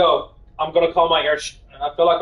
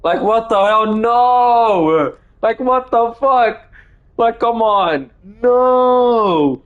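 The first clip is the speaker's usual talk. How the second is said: raised, higher indignant complaints; outraged protest; 6 semitones higher, slower than usual. Real, not acted. Reacting to Dennis and Lizzie, higher outraged protest.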